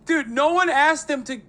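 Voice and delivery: high, laughing through tears; cracking up so hard it turns to crying. Real, not acted.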